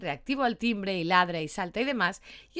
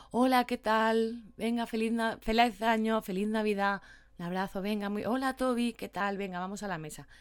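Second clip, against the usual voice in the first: calmer greeting. Shown as a demonstration. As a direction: greet the guests unhurried so the dog stays calm. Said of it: "Más pausado".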